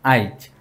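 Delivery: আইজ said with the i moved before j, like a-ij; dialect pronunciation. Shown as a demonstration. Teacher to students, demonstrating the আইজ dialect form. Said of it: "যদি এটি উচ্চারণ করি আইজ".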